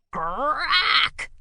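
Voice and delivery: high gruff beast shout; shouted crack. A narrator's reading. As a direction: bark it out like a cranky beast. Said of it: "shouted Grackle".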